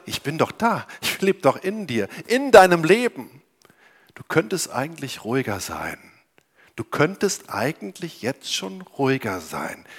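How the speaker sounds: leise und beruhigend; sanfte Jesusstimme. Acted. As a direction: sprich ihm ruhig zu. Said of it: "Jesus' Stimme kommt ... und sagt". (leise, tröstende Jesusstimme)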